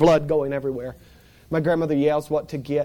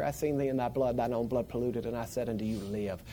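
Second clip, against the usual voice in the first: scripture recitation; 5 semitones lower, 9 dB quieter than usual. Retold or imitated. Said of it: "quoting the scripture".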